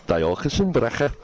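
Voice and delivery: team name in a Welsh lilt; Welsh accent. Shown as a demonstration. Host showing why the team sounded Welsh, Welsh accent. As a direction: say it like a Welsh speaker. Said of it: "say it in a Welsh accent".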